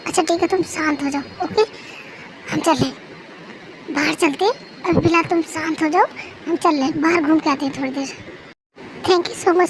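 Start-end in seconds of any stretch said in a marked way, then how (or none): 0.1-8.1 softer, lowered reassuring voice; calm them down gently; quiet, comforting tone; soothing. Acted. Calming a distressed, crying wife.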